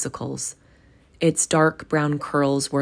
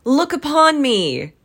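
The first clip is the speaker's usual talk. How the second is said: much higher, louder jovial cry; commanding call; 10 semitones higher, 6 dB louder than usual. A narrator's reading. Ghost bidding Scrooge behold him, high and loud. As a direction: throw the words out in delight. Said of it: "said the spirit".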